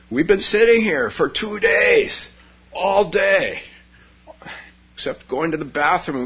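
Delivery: two keen meditators proudly report their efforts; eager students. Acted. Meditators boast to Shakyamuni, eager and high.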